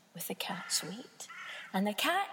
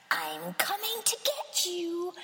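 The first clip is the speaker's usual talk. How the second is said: snarling cat; 7 semitones higher, slower than usual. Acted.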